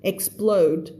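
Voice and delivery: "explode" with every consonant clearly sounded; clear cluster. Shown as a demonstration. Teacher modelling consonant clusters, "explode" said with clear k-s-p-l. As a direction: articulate k-s-p-l in "explode". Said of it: "ต้องออกให้ชัด".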